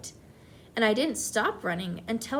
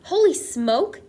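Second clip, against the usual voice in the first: high panicked yell in a hoarse breath; 6 semitones higher, 7 dB louder, slower than usual. A narrator's reading. Cook yelling as the mouse climbs his leg, panicked. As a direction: cry out in panic as the man. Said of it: "the man was yelling".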